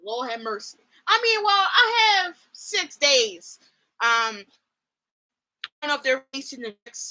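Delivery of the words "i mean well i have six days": laughing whine. Real, not acted. Laughing despair over waiting.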